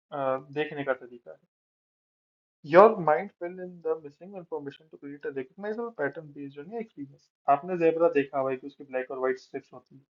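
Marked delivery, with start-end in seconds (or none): 2.6-7.2 slow, careful reading from a slide; slow text reading. Real, not acted. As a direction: read it word by word. Reads slide text aloud. (धीरे-धीरे पढ़ना)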